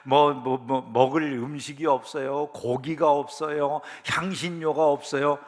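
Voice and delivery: slow, drawn-out listing of grievances; mock complaining. Israelites in the wilderness grumbling about food, slowly complaining. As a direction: imitate grumblers, dragging out each complaint. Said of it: "내내 불평하고 원망하잖아요".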